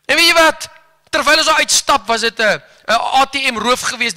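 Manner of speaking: ordinary talk, nothing marked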